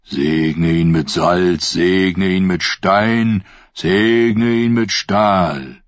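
slow, measured ritual chant; solemn blessing. Acted. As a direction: intone each blessing slowly. Ritual blessing over drowned man. (langsamer, feierlicher Segen)

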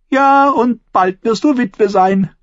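slow, high, relishing each word; gloating. A narrator's reading. Lysa tells Sansa she'll be a widow, gloating slowly. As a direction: savor the threat.

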